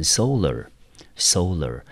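"solar" with the first syllable stressed. Shown as a demonstration. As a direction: say "solar" leaning on its opening syllable, SO-lar. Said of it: "重音落在第一个音节".

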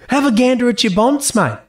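mock cranky coastal old man; gruff old Aussie bloke. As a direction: ham up the outback grump. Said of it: "another one where he's like".

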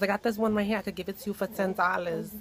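lightly imitated Hispanic accent. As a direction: put on a Hispanic store lady's accent. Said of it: "so she be talking like this".

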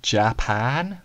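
"Japan" said oddly, stretched out; weird pronunciation. Retold or imitated. Imitating someone who never heard of it, weird pronunciation of "Japan". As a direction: say "Japan" like an unknown foreign word. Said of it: "they would pronounce it weird".

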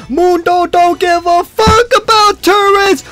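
high, slow, strained monster shout; hammed-up brute catchphrase; Mundo voice. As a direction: bellow it like a dim brute.

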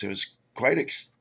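hiccup breaks the word; talking through sudden hiccups. Real, not acted. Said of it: "I got the hiccups all of a sudden".

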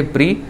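प्री said as pri with long ee; demonstrating pri sound. Shown as a demonstration. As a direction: glide p into r then a long ee in प्री. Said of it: "इस प्रकार से पढ़ेंगे". (प्री का स्पष्ट उच्चारण)

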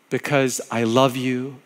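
slow, gentle because I love you; slow tender repeat. Acted. Pastor repeating God's words to listeners, slow and tender.

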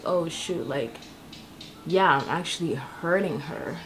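low, soft voice for a dawning realization; imitated sudden realization. Braider realizes she is hurting the customer, hushed realization. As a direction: quietly play someone catching their mistake. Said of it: "snaps out of it and it's like".

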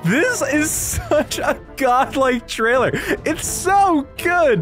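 high, drawn-out exclamation of awe; excited raving. Real, not acted. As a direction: stretch it out in high-pitched amazement. Raving over a trailer.

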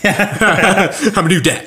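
high, very slow, hammed-up whiny dad; hammed-up new dad. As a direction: stretch it out like a pouting new father. Repeating the dad's line.

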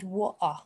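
"water" with the t dropped and no final r; alternative pronunciation. Shown as a demonstration. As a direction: say "water" as WAW-ah. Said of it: "You can say water".

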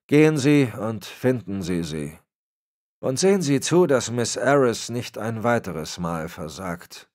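disappointed superior laying down the law; a hint of a menacing patriarch; Berlitz, cold old boss. Berlitz dismisses Francis.

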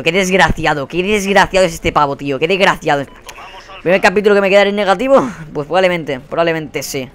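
ordinary talk

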